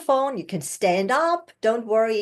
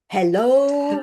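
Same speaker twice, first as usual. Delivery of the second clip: louder "Hello" on a full breath; grounded hello; 3 semitones higher, 4 dB louder than usual. Shown as a demonstration. Coach modeling the breath-backed greeting. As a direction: greet from the belly. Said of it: "big breath and".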